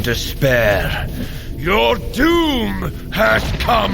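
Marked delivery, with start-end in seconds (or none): 1.6-3.9 slow, much higher declaration of doom; slow heroic threat; grand threat. Acted. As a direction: drag out each word like a proclamation. Threatening the villain.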